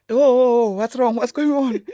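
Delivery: high, loud worried questions, imitating herself; retelling her panicked reaction to a call; alarmed. Answering a screaming friend on the phone, alarmed. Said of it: "she starts screaming and screaming and she's crying".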